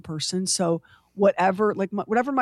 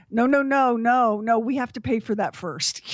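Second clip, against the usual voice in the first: caregiver scolding; 3 semitones higher than usual. Retold or imitated. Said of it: "saying things like".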